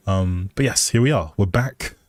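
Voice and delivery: ordinary delivery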